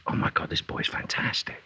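hushed, breathy awe; an amazed whisper, imitating the dad; retold whisper. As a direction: say it under your breath like a secret. Dad's hushed praise, retold.

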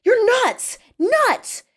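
high-pitched frantic scream. A narrator's reading. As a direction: scream it in panic. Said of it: "he screamed".

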